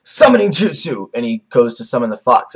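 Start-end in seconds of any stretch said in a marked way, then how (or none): 0.0-1.1 drawn-out, higher-pitched call; acted attack call. Vlogger acting out a summoning, called out high and slow. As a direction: call out a technique name slowly, with mock force.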